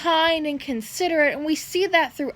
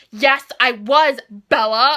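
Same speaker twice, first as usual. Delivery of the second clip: suave Edward; 2 semitones lower, 4 dB louder, slower than usual. Retold or imitated. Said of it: "And he'll be like".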